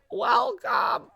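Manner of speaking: high, drawn-out greeting; odd sing-song welcome. Pretend. Greeting newly arrived zoo guests in a high sing-song. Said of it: "I don't know why I said it like that".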